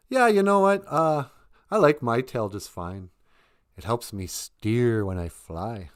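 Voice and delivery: a bird shrugging off the boast; chirpy crow. Acted. Crow replies calmly.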